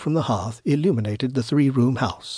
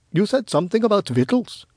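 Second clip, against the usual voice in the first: higher-voiced, impulsive young wise man; impulsive young Gaspar; 8 semitones higher than usual. Young wise man blurts out about victuals, impulsive.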